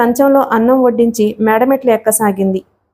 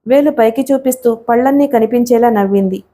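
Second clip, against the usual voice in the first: ordinary delivery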